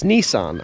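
"Nissan" as NEE-sahn; correct pronunciation. Shown as a demonstration. Australian conceding the proper brand name, "Nissan" as NEE-sahn. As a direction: say "Nissan" with a long ee and an ah. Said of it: "we mispronounce things".

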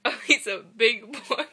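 retelling a friend's line while giggling; laughing through a quote. Retold or imitated. Telling viewers what Katina said, laughing through it. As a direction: let the laugh spill into the words. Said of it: "Katina was like".

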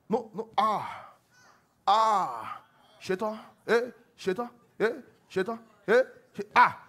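high, loud frightened yelps; the devil flees in fright; mock terrified cries; panicked devil. Acts devil fleeing in panic.

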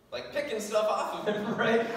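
chuckling through the words; laughing while telling. Real, not acted. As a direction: let a laugh break in as you picture it. Laughing at imagined scene.

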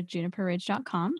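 slow and clear for the listeners; host slowing down so listeners catch the site, unhurried; said slowly. Shown as a demonstration. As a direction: spell out the web address deliberately. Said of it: "let me say that slowly".

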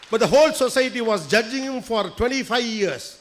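very slow, weighty English line; slow emphatic English aside. Real, not acted. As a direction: drag every word out for weight. (மெதுவாக அழுத்தி ஆங்கிலத்தில்)

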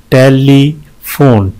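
"टेलीफोन" slowly, with a gap before the last syllable; syllable breakdown. Shown as a demonstration. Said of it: "तीन है इसमें". ("टेलीफोन" धीरे, आखिरी हिस्सा अलग)

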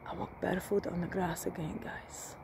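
real soft whisper to the camera. Real, not acted. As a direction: whisper it as if someone might hear. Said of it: "Sorry, I'm whispering".

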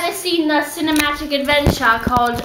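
playful put-on British accent. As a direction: speak in a mock British accent. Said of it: "I like to speak in British accents".

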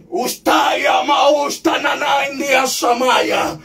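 slow murmured tongues after the peak; speaking in tongues. Real, not acted.

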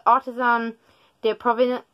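attempted French accent. Shown as a demonstration. Vlogger reading a French soap label, attempted French accent. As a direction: have a clumsy go at French pronunciation. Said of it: "I can't do a French accent".

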